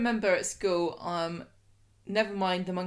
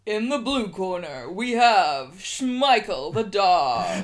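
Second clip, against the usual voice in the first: wrestling commentator; 4 dB louder, slower than usual. Acted. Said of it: "in your best, um, wrestling announcer's voice".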